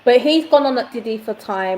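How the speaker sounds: muffled, hand over mouth. Real, not acted. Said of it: "Your, your sound is muffled".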